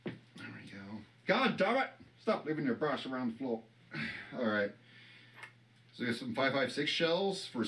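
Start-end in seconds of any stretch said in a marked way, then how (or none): 1.3-3.6 Hank Hill impression. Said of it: "I can't do the Hank Hill voice".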